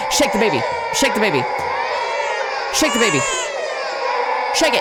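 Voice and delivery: high, loud repeated yell; loud frantic shout at the game. Real, not acted. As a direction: yell it at the screen over and over. Frantic button prompt shouting.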